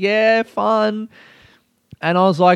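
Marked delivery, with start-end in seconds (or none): 0.0-1.1 mock, high, amused, laughing-it-off little voice. Retelling how a woman answered while smiling, imitating someone smiling. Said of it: "like smiling".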